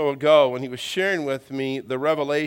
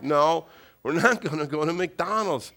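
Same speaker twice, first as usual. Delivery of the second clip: measured, firmer no from dad; firm refusal. Retold or imitated. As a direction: lay down the law to a pestering child. Father's firmer second refusal.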